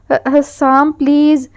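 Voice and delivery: a slow, stretched frightened plea; frightened cry. Acted. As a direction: drag the word out, scared on the bike. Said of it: "وہ چیخی". (حسام سے ڈری ہوئی، کھنچی ہوئی التجا)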